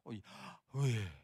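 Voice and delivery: slow airy Oh, Yahweh on an exhale; slow breathed Yahweh. Retold or imitated. Teacher mocking the breathing claim with a slow exhaled Yahweh. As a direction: drag Oh, Yahweh out like a long breath. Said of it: "Nafas gitu".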